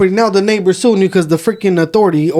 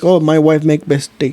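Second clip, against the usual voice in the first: put-on Indian accent, lower pitch; 3 semitones lower than usual. Retelling what a man said about tea, in a put-on Indian accent. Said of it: "so I'm supposed to make an Indian one".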